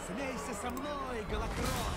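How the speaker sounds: mustache twirling villain. Acted. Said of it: "Злодейский смех в одиночку!".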